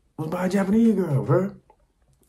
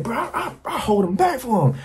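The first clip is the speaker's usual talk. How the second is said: much higher, sheepish bragging; high coworker voice; 8 semitones higher than usual. Retold or imitated. Coworker explains himself to narrator, higher sheepish voice. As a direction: voice the friend, pitched way up. Coworker describes position, retold.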